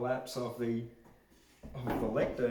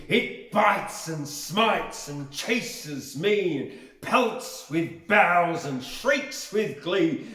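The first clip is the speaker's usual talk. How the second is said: louder, fuller dramatic reading; dramatic recitation; 5 semitones higher, 9 dB louder, much slower than usual. Acted. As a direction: give the verse more force. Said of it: "that's better".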